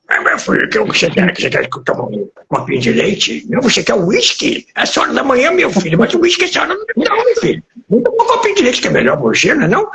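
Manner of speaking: put-on cracked, high-pitched ninety-year-old; decrepit old man. Old saloon keeper offering a customer milk instead of whisky, decrepit old-man voice. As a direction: play a doddering little old man, voice climbing high. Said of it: "caquete, aquele velhinho todo muito velhinho".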